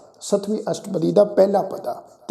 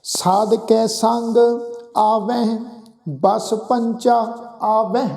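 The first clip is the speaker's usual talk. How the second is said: drawn-out, measured chant of the verse; slow scripture recitation; much slower than usual. Shown as a demonstration. Preacher reciting Gurbani to the congregation, slow and measured. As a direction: intone each word slowly and reverently. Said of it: "ਮਹਾਰਾਜ ਕਹਿੰਦੇ".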